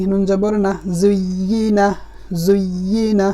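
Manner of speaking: measured, syllable-by-syllable Arabic spelling recitation; Qaida spelling drill. Shown as a demonstration. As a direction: spell each letter, then join the word deliberately. (কায়দার বানান করে টেনে টেনে পড়া)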